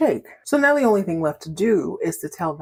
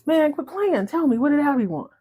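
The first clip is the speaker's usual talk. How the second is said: higher, whiny demand; whiny pleading; 9 semitones higher than usual. Retold or imitated. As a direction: nag your little brother to spill it. Karen begging her brother.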